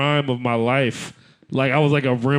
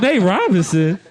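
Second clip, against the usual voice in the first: meme guy voice; 7 semitones higher than usual. Retold or imitated. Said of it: "You're like".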